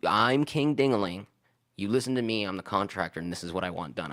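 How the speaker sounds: mock a pompous contractor laying down the law; bossy contractor. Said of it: "he's got a weird way how he presents".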